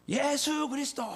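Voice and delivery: high, drawn-out imitation of a crowd's cry; crowd shouting. Youths answering the preacher at a rally, high imitated shout. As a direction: call it out like thousands answering together. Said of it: "이렇게 외칩니다".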